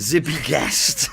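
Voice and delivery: drawn out slowly through suppressed laughter; trying not to laugh. Real, not acted. Radio host announcing guest's new nickname, trying not to laugh. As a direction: stretch the name out, giggles about to burst. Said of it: "try and say it without laughing".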